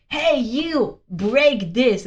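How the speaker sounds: mock bossy kid; a hint of a demanding brat; belligerent child. Real child ordering the robot around, mock belligerent. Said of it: "it's a belligerent child".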